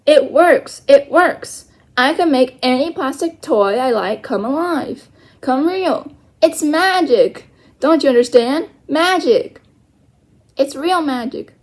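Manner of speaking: eager, rising delight; bursting with the discovery; excited. Acted. Omri excitedly tells Little Bear the magic works.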